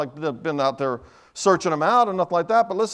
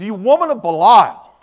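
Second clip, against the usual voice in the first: loud, slow, higher accusation; devil laying it on thick; 4 semitones higher, 11 dB louder than usual. Acted. Old devil accusing the struggling woman, laid on thick. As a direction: hammer the insult, stretching it out. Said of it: "he's probably laying it on thick".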